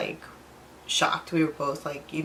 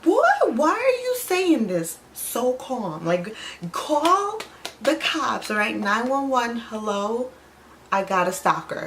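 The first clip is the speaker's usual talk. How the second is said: high, loud, slow alarmed outburst; panicked disbelief; 5 semitones higher, 4 dB louder, slower than usual. Retold or imitated. Told a stalker follows them, high loud panic at boyfriend. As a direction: freak out at his calmness. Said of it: "he said it so calm".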